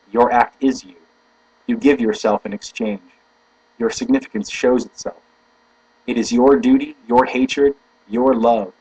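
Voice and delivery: deliberate, emphatic recitation; formal quote reading. Acted. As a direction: recite it in measured, stressed phrases. Repeats the quotation aloud.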